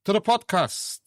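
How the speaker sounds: booming showman welcome, slowing down; announcer intro. Pretend. Host opening the podcast for listeners, showman announcer voice. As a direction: roll out the welcome like a ringmaster.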